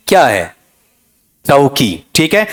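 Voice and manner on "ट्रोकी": चौकी as "TROH-kee", weight up front, falling; correct pronunciation. Shown as a demonstration. Teacher gives the term's pronunciation, चौकी front-stressed and falling. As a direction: land on the first syllable of चौकी, drop the second. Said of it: "क्या उच्चारण है?".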